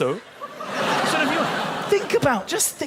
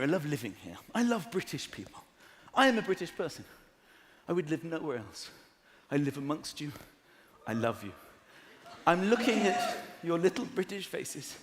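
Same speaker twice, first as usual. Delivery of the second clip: hushed sincere; 7 semitones lower, 8 dB quieter than usual. Acted. Hushed sincere love confession to crowd.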